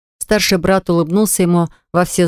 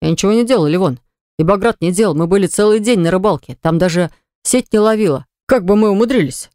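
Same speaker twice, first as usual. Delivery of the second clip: gabbling. Acted. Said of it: "затараторил".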